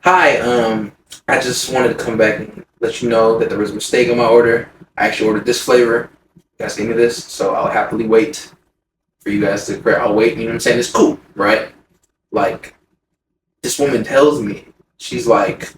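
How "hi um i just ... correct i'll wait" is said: nice and friendly. Retold or imitated. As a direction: politely raise a small complaint, staying calm. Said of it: "I'm so nice, so friendly".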